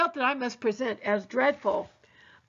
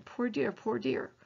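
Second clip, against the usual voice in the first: slow, much softer comforting murmur; soft whisper; 5 dB quieter, slower than usual. Acted. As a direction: soothe her quietly, barely a breath.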